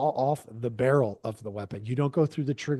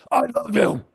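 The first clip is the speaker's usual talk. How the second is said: unconvincing delivery; 5 semitones higher, 4 dB louder than usual. Shown as a demonstration. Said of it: "people are not gonna believe you".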